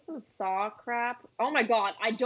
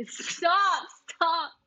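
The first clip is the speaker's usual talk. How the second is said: panicked shout; 7 semitones higher, 6 dB louder than usual. Real, not acted. Scared by monster.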